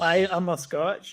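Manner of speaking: slow, drawn-out put-on accent; mock the affected accent word by word; stretched-out parody of an affected accent; imitating Fraser Nelson's accent. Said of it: "speaking of bad accents".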